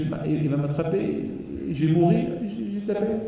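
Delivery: a frightened little voice confiding; fearful mouse. Acted. The mouse tells the sheep its fear, high and worried.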